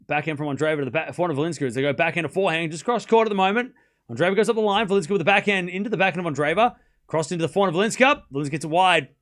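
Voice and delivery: quick, running rally commentary; fast play-by-play. Acted. Streamer calling the rally live for chat, fast. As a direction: rattle off every shot as it happens.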